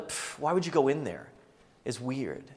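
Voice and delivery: dismissive puff, then mild disdain; lightly mocking scoffer, dropping off at the end; scoffing. Scoffers questioning the girl going in, mildly dismissive. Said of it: "But the scoffers are the".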